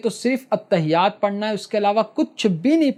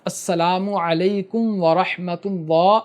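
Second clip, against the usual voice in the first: slow recited salam; slower than usual. Shown as a demonstration. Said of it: "سلام پھیرنا ہے پہلے دائیں طرف".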